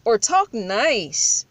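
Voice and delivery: slow, drawn-out prissy imitation; slow mocking impression of a troll telling her off; mock scolding. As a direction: mimic a scold, slowly, with a sneer. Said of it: "come poke you in the eye and say".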